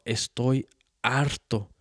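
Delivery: hammed-up angry father ranting; loud mock tirade from the drunk father; drunk dad's rant. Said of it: "He's all".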